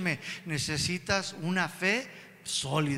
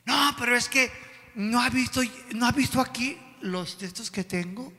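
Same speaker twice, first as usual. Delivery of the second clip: insistent mock pleading of a case; mock protest; 5 semitones higher than usual. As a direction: imitate someone arguing back. Acted believer arguing back.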